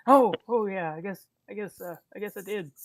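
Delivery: mumbling over soup; sheepish while drinking. Acted. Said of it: "drinking up the rest of his soup".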